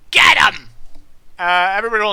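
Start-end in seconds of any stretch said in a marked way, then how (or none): 0.1-0.7 loud, explosive yelled command; acted battle cry; attacker's shout. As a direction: yell to set the mob on someone. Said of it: "another voice says".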